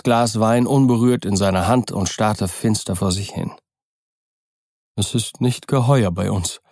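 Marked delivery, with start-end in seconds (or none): 5.0-6.6 dull. Acted. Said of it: "sagte er dumpf".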